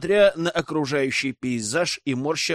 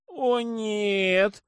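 higher, mild moan; 7 semitones higher than usual. A narrator's reading. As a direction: groan it out wearily. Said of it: "простонала блондинка".

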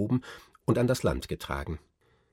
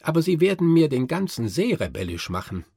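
higher, louder fretful prince voice; Nutcracker worried; 8 semitones higher, 6 dB louder than usual. A narrator's reading. Nutcracker frets to Marie about the noisy Moors, higher and louder. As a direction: fret aloud as the nervous little prince.

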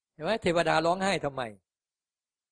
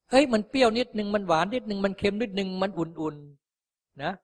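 slow, higher, savouring each taste; acting out tasting; 7 semitones higher, 3 dB louder, slower than usual. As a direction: mull over the flavours slowly like tasting soup. Acts out tasting the water. (ทำเสียงเหมือนกำลังชิมรสช้าๆ)

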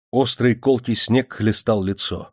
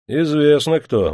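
slow, higher and louder, loaded with implication; meaningful; 6 semitones higher, 5 dB louder, slower than usual. A narrator's reading. Officer hints to the old man who is roaming, meaningfully. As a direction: say it pointedly, drawing it out. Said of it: "многозначительно сказал офицер".

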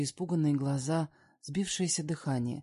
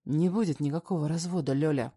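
snapping; 4 dB louder than usual. Acted. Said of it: "срывается он".

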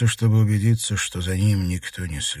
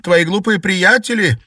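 bitter outburst; 6 semitones higher, 6 dB louder than usual. Acted. Sister's bitter outburst at brother.

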